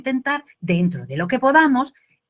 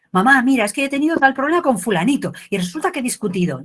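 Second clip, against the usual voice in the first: put-on child's voice; 5 semitones higher, faster than usual. Child tells mum about a fight, higher and faster. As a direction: blurt it out like an upset kid. Child telling mother a problem.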